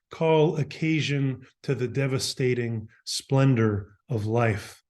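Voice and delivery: measured poem recital with deliberate pauses between phrases; poetry reading. Acted. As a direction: recite it as verse, phrase by phrase, weighting the opening words. Reads own poems aloud.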